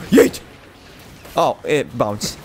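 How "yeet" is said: yeet shout. Real, not acted. Throwing in game.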